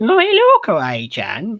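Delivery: very high, swooping, sing-song crazy cat lady voice. Retelling how the crazy cat lady talks: imitating the crazy cat lady. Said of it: "She's like".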